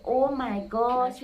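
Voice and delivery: slow, drawn-out "Oh my gosh" in wonder; amazed oh my gosh. Shown as a demonstration. Teacher showing how people react to good news, slow and amazed. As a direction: stretch out "Oh my gosh" like hearing great news. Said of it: "they say".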